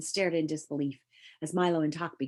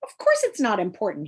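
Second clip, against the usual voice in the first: a mild snarl, a bit louder; snarled angrily; 6 dB louder than usual. Acted. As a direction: bite the words out in mild anger. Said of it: "he snarled angrily".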